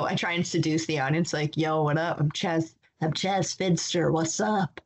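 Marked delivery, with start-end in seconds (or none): 1.6-4.8 lightly voiced cartoon seducer; a hint of a smooth cartoon flirt; cartoon character voice. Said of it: "I pretend to be a, a cartoon character".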